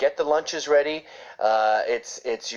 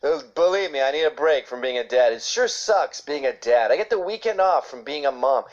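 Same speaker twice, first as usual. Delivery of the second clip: mock bragging dad. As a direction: play a dad moaning about time off. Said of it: "Imagine a dad bragging, going".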